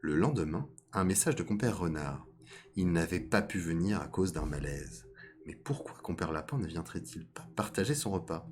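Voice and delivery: measured storytelling read; story narration. A narrator's reading. Storyteller introducing fox and rabbit to listeners, measured narration. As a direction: narrate a fable at an unhurried, even pitch. Reads a fable aloud.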